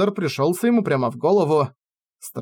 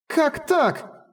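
distraught outcry; 10 semitones higher than usual. Acted. Heroine distraught, calling Rainer.

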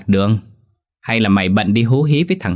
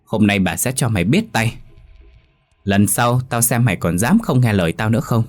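teeth-gritting rage; 3 semitones higher than usual. Acted. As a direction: scold her through gritted teeth, speeding up near the end. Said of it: "nghiến răng nói".

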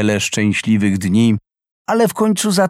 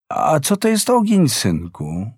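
surprised; 3 semitones higher than usual. Acted. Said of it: "zapytała zdziwiona".

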